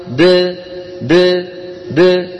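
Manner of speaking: repeated د released with the throat open; isolated dal bounce. Shown as a demonstration. Teacher drills the dal sound alone. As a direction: bounce the د open each time. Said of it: "يباعد بين طرف لسانه ومخرج الدال".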